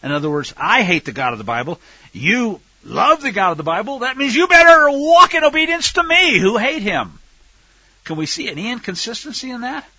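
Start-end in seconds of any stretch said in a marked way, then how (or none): 0.6-7.2 mock tyrant rant. Voicing the tyrant's demand.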